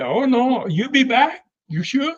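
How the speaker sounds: high, teasing mock surprise; mock disbelief. Dutch mocks Roy's promise.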